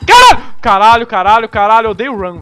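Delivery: high, loud scared yelling; panicked screaming. Real, not acted. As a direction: yell in sudden fright. Gasps, monster appears.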